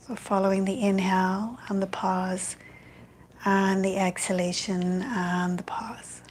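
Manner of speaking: calm, even meditation guidance with long pauses; guided meditation. Real, not acted. Yoga teacher guiding an online evening class into loving kindness, meditative. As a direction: ease them into stillness, phrase by unhurried phrase.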